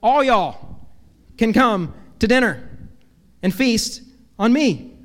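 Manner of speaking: preacher voices Jesus inviting all y'all in light Southern; Southern drawl. Pretend. Preacher playfully translating Jesus' invitation into Southern accent. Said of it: "translate this into Southern".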